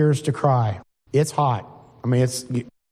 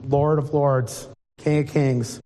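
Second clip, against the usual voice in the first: reverent awe; slower than usual. Retold or imitated. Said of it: "I'm gonna be laying flat going".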